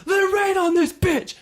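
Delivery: high mock Conor voice; Conor quote. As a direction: squeal it like a hyped Conor. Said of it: "He's like".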